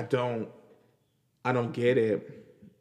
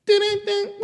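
sarcastic ding; 5 dB louder than usual. Real, not acted. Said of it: "slip up and say".

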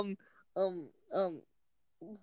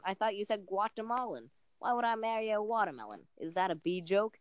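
lightly put-on New York stand-up accent; New York comic telling a story; Jerry Seinfeld accent. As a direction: read lines as a New York comedian. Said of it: "your current Jerry Seinfeld accent".

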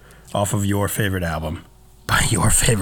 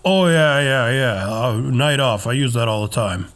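feigned agreement; 2 semitones higher than usual. Acted. Cohost mocking how they might fake knowing the term, feigned agreement. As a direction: pretend to go along with it. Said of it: "go along with it".

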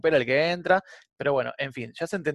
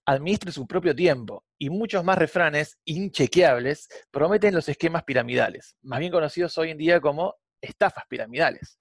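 ad read. Acted. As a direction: sell it like a late-night ad. Ad-style podcast intro.

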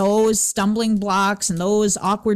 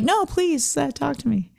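higher, pleading plea to be talked to; mock pleading; 7 semitones higher than usual. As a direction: play the lonely one begging for company, lightly. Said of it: "Then you're like".

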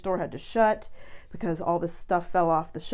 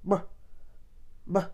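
short, soft "buh" like a dog; imitated dog noise; 5 dB quieter than usual. Owner shows her dog's attention call, little imitated bark. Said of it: "when she does her little".

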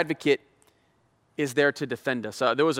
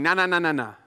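gentle advocate; 3 dB quieter than usual. Acted. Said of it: "our advocate is saying".

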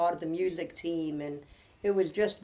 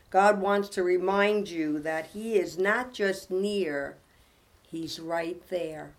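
devotional reading; 4 dB louder than usual. Acted. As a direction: read it as comfort for troubled listeners. Reads devotional aloud to close.

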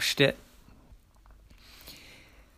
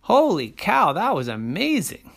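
amazed; 5 semitones higher, 4 dB louder than usual. Acted. Boy thrilled by magic.

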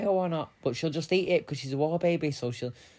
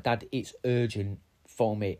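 urgent; 4 semitones lower, slower than usual. Retold or imitated. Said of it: "I'm like".

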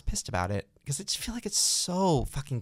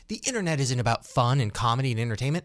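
high, preachy mocking voice for warrior; mock social justice warrior; 4 semitones higher than usual. Host mocking Twitter activists, high and preachy. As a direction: parody a self-righteous activist. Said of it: "every social warrior".

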